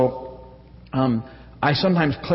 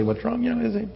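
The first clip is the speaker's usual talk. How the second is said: gentle concern; 7 semitones higher, 4 dB quieter, faster than usual. Shown as a demonstration. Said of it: "But that's how I say it".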